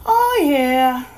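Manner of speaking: light, offhand yes; casual. A narrator's reading. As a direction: toss it off casually. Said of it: "she said casually".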